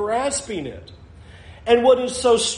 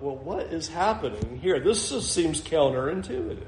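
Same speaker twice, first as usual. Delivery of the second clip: quiet puzzled musing; 4 semitones lower, 6 dB quieter than usual. Real, not acted. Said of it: "musing over a puzzling verse".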